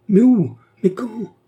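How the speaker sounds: high, urgent anxious questions. A narrator's reading. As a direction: fire out each question, desperate to know. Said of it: "demanda-t-il avec anxiété". (questions anxieuses, voix aiguë)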